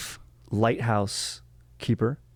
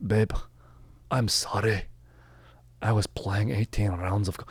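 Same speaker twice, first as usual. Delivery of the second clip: put-on Scottish apology; sheepish excuse in a mock Scottish accent. Shown as a demonstration. Golfing husband apologizing to his partner, mock Scottish accent. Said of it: "say it in a Scottish accent".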